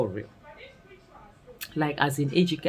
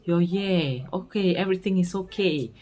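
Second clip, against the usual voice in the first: higher, fawning reassurance; mock eager welcome; 4 semitones higher than usual. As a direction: play the relatives falling over themselves. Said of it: "they have to be like".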